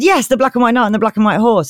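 lightly hammed-up knightly pride; proud knight. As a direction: confirm it with mock grandeur. Knight confirms to awed pixie.

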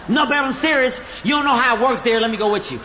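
mock the girlfriend begging to come along; girlfriend's voice. Comic mimicking his girlfriend insisting she come to Starbucks, pleading.

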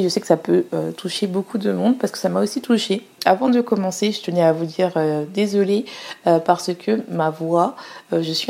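speaking while sick, a bit strained. Real, not acted. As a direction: voice worn down by illness. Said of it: "comme vous pouvez l'entendre". (voix de malade)

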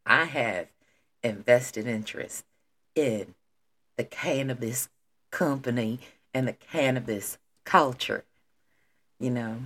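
put-on low, soft, playful country accent; little country voice. Host playfully claims her stake in cannabis, country voice. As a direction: put on a hushed country lilt. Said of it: "in doing my little country voice".

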